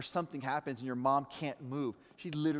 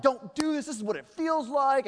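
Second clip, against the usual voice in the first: put-on raised, stern scolding of the older kid; retold scolding; 9 semitones higher, 5 dB louder than usual. Dad scolding his daughter in the pool, louder and higher. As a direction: tell her off sharply. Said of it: "I'm like".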